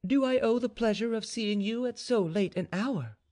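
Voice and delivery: high, sweetly polite daughter; high-pitched, tender courtesy; softest tones. A narrator's reading. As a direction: greet your father gently in a high voice. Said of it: "in her softest tones".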